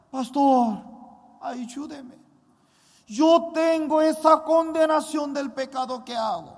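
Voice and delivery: loud, slow, pleading cry to the pastor; desperate plea. Retold or imitated. Young man begging his pastor for help, loud pleading. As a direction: beg him for help, almost shouting.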